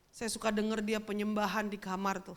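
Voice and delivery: ordinary talk, nothing marked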